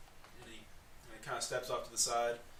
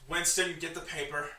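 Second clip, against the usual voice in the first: raised voice, a short order; mild yell; 4 semitones higher, 4 dB louder than usual. Acted. Gnome orders his servant to get the paper, mild yell. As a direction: call out an order, moderately loud. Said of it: "just yells".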